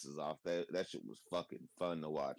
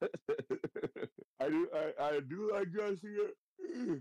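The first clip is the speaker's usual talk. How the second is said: higher, slow, giggling; laughing admission; 10 semitones higher, much slower than usual. Real, not acted. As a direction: admit it sheepishly through a laugh. Laughing confession.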